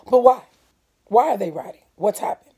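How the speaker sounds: anxious, rising questions; a mother fretting over the news; worried asking. Acted. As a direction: ask in alarm. Mom anxiously asking in story.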